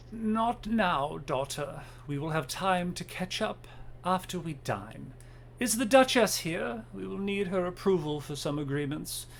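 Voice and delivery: a hint of an imperious elder; stern old matriarch. Old mother dismisses her daughter before dinner, lightly stern.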